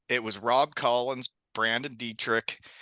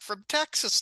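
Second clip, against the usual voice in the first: mock Texan drawl; 10 semitones higher than usual. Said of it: "he's talking like a Texan".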